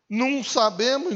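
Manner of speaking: ordinary delivery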